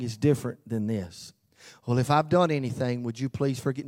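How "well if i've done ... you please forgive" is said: quick, offhand hedge; hedging non-apology. Shown as a demonstration. Preacher mimicking a weak apology, fast and evasive. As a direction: brush it off fast, half-admitting nothing. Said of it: "No, that's not admitting you were wrong".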